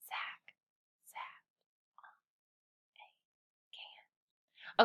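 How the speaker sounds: slow whispered read. Shown as a demonstration. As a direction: whisper each word separately. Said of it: "read it in a whisper voice".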